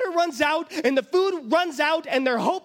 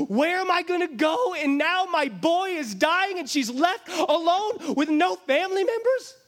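higher, pleading despair; desperate mother; 6 semitones higher than usual. Acted. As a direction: cry out helplessly. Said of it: "She is lost".

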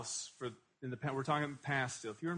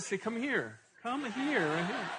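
yelling across the room; 8 semitones higher, slower than usual. Retold or imitated. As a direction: call her over, pitched way up. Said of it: "when I said".

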